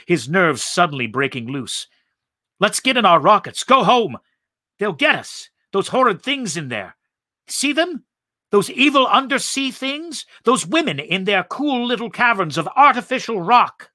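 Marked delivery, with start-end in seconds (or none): 2.6-13.9 high, loud panicked pleading; panicked scream. A narrator's reading. Ettel panicking at the women, high frightened scream. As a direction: nerves snapping, begging to flee. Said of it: "screamed Ettel".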